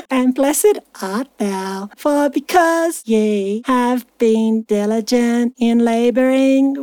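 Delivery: put-on slow scripture reading drifting into Valley girl. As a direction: read the verse slowly with a slight Valley girl lilt. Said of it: "starting to sound like a Valley girl".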